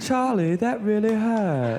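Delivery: put-on British accent, pitched very high. Asked for favorite YouTube videos, you quote a classic one, imitating a British accent. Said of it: "[imitates British accent]".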